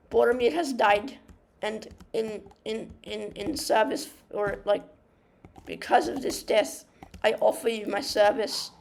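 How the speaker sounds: halting, lightly attempted Irish accent; amateur Irish lilt for a hobbit; rough Irish accent. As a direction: have a go at Pippin in Irish. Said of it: "'Cause he has an Irish accent".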